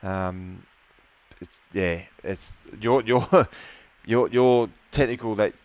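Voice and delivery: holding back tears; emotional. Real, not acted. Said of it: "sorry for getting emotional there towards the end".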